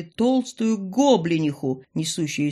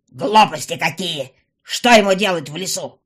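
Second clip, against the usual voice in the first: dismissive; 7 dB louder than usual. A narrator's reading. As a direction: wave them off scornfully. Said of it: "не хотела ничего слушать".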